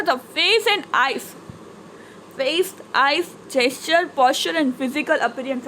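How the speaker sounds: slow, measured textbook reading; reading aloud. Acted. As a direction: read it out slowly for the class. Reads English textbook sentences aloud. (ધીમેથી પાઠ વાંચન)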